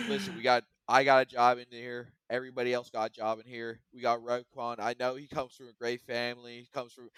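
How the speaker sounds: a rough go at a coach's speech cadence; Matt Nagy. Acted. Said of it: "trying to get my Matt Nagy right now".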